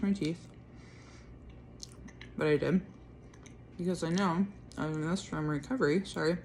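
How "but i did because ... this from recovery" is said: chewing while talking; mouth full. Real, not acted. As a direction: talk through a mouthful of toast. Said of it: "I'm chewing while talking".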